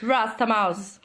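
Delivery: playful put-on Jamaican; amateur Jamaican accent. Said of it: "I can do the Jamaican one".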